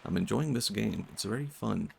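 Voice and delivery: understated, monotone self-impression. Streamer imitating how a newcomer hears him, monotone. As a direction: deliver enthusiasm in a mild deadpan. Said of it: "it's just a monotone Swedish guy being like".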